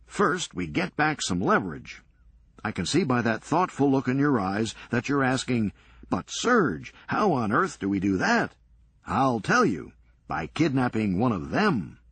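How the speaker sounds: brisk, sardonic comeback; wry Serge. Acted. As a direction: toss it off dryly, quick. Serge lays out plan.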